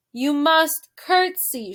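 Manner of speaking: slow, emphatic shout; head servant shouting at a deaf girl. Acted. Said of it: "shouted Louise".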